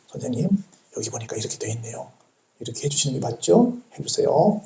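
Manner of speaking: a hushed, courteous plea over the document; quiet polite request. Retold or imitated. Citizen quietly asks the teacher to follow the law, softly. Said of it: "조용히".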